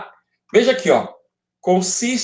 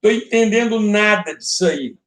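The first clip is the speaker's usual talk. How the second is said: higher-pitched voice of a lost student; aluno confuso; 5 semitones higher than usual. Acted. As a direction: play a student protesting to the teacher, pitched up. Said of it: "Deve ter alguém pensando assim". (aluno perdido reclamando, em tom mais agudo)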